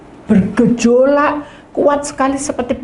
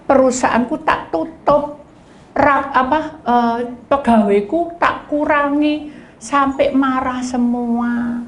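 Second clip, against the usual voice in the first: complaining member; 4 semitones higher, slower than usual. Retold or imitated. Mimics a complaining congregant.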